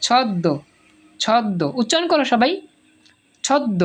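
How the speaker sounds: "ছদ্ম" said chhod-do, no m sound; doubled-d pronunciation. Shown as a demonstration. Teacher leading everyone to repeat "ছদ্ম" as chhod-do. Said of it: "এই দ কথাটা দুইবার উচ্চারিত হবে".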